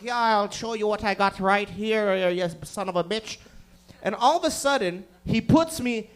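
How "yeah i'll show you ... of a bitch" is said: lightly put-on drunk Irish accent; drunk Irish guy. Two housemates spinning while boxing, mock drunk Irish. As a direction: brawl like a tipsy Irish man. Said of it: "like two drunk Irish guys going like".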